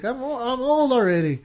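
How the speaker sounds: a hint of a six-year-old declaring he's grown up; mock kid voice. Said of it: "and Jacob's like".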